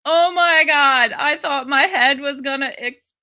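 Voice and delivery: gleeful gushing. Real, not acted. Host reliving a hearing moment, gleeful gushing. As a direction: let it burst out, stretched and loud.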